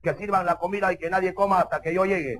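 a hint of a bossy tough guy; cocky suitor. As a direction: give orders with a touch of mock swagger. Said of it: "Otros ya son recontra choradazos".

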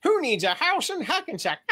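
a pop singer crossed with Darth Vader. Retold or imitated. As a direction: pop star meets Vader in one line. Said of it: "my pop singer combined with Darth Vader impersonation".

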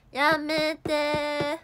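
drawn-out loud cry of stop; stop yelling. Real, not acted. To the fighting pets, a long loud yelled stop. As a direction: stretch it out loud to break up the fight.

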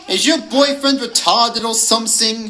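high-pitched mocking wolf; howled jeer. A narrator's reading. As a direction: howl it as a taunt. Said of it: "the hooligan howled".

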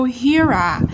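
HERE ARE run together, R carried into ARE; linked sounds. Shown as a demonstration. Teacher explaining linking to learners, HERE ARE joined by the R. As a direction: slowly link HERE into ARE. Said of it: "chúng ta sẽ nối âm này".

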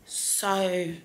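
slow, groggy morning voice; hungover. Real, not acted. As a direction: drag the words out, hungover. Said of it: "so hungover".

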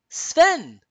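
high, loud cry of admiration; loud, high, admiring shout; thrilled exclamation. A narrator's reading. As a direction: call the name out high and delighted. Anna exclaims at groomed reindeer.

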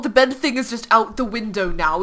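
ordinary talk

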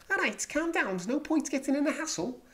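very high-pitched Liverpool Scouse; Scouse accent. Acted. Vlogger imitating someone from Liverpool, Scouse accent. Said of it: "They include Scouse people who come from Liverpool".

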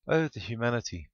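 high, loud horrified cry. A narrator's reading. Babe watching the barn collapse, crying out. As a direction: wail it in mock horror. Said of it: "Babe cried".

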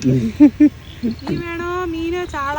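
long drawn-out hawker's cry; fish seller call. Pretend. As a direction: stretch it like a street fish seller. Playing fish seller with pots.

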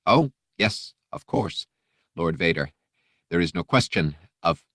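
an eager, frightened aide; nervous agreement. Acted. Aide nodding jerkily to Vader, anxious. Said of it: "nodded jerkily".

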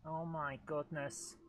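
usual speaking voice

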